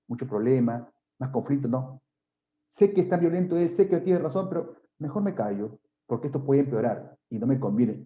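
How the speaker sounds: a hint of a woman talking herself into silence; voicing a resigned victim. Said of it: "es decir".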